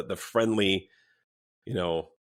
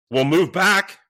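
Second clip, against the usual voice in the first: raised, high mock yell; retold angry demand; 8 semitones higher, 9 dB louder, slower than usual. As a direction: imitate a belligerent man ordering someone back. Retelling a drunk man's demand.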